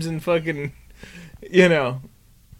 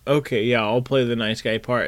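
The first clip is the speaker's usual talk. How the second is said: waffling nice guy; 8 semitones lower, 6 dB quieter than usual. Retold or imitated. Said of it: "Dad does this waffling of".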